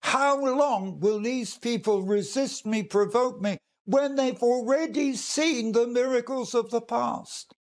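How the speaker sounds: mildly upset, emphatic appeal, pitch rising towards the end; upset God. Retold or imitated. Preacher voicing God's complaint about the people, mildly upset. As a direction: voice God's exasperation with restraint. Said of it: "God was so upset, saying".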